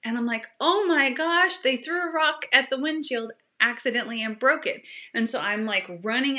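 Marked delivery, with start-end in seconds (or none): 0.6-4.9 high, loud start on the gasped realization; acted-out shock, easing as it goes; dramatized dismay; retold alarm. Retold alarm at broken window.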